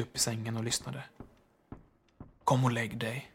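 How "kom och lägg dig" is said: tender. A narrator's reading. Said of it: "sa han ömt".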